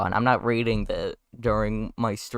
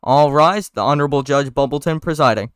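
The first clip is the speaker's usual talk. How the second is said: bailiff announcing; 3 semitones higher, 5 dB louder than usual. Acted.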